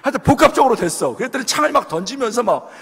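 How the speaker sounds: words broken by laughter; laughing while talking. Real, not acted. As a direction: keep laughing as you tell it. Laughing through the story. (웃으면서 말하기)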